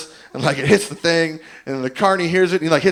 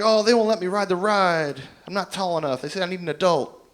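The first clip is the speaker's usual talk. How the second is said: lightly voiced upset child, a little higher; pouting kid; 4 semitones higher than usual. Upset kid at the ride explains to a stranger, pouting. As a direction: imitate a sulky kid complaining. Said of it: "he's, like, pouting. He's upset".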